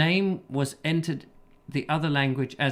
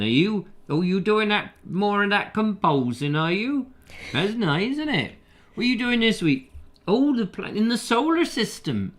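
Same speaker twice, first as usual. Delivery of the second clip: put-on country English accent, often higher; regional English accent; 4 semitones higher, 3 dB louder than usual. Local mate teasing Gustav about composing, in regional English accent. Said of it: "Depending on which part of the country".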